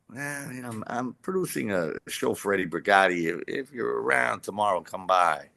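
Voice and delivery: offhand, throwaway invite; a casual by-the-way offer. Retold or imitated. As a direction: toss it off like it's nothing. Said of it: "He says very casually".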